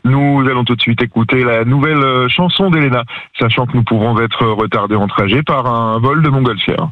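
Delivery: a hint of a train conductor announcing; lightly done onboard announcement. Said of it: "avec ta voix de contrôleur".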